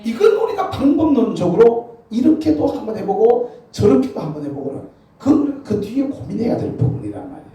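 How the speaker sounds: high, loud preaching climax; full-force preaching. Acted. The pastor rousing the congregation to a blessing, preaching loud.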